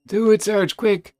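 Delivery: loud eager command; urgent urging. Acted. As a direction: goad him on. Kit urging loudly.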